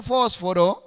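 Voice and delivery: "fósforo" stressed as FÓSforo; accent the opening syllable of "fósforo"; Spanish pronunciation. Shown as a demonstration. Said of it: "voy a hablar ahora sí en español". ("fósforo" en español, con acento en la primera o)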